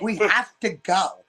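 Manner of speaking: slow, lightly mocking dramatic urgency; imitating the girl's dramatic delivery; imitated changed voice. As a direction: draw it out like her grave warning. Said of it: "her voice just changed".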